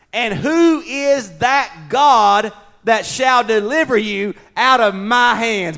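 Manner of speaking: loud, slow, booming royal threat; enraged king. Acted. King threatening the three men with the furnace, loud declaiming. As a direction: declaim the sentence with weighty, stretched words. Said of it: "In his rage and fury".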